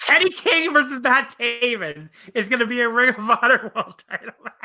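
laughing through the words; cackling. Real, not acted. Laughing at the heel versus heel title match. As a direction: cackle while saying it. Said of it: "I'm cackling".

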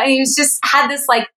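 ordinary delivery

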